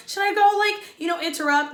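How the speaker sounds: put-on hesitant sweet girl asking; imitating Serena P. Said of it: "she's asking the girls".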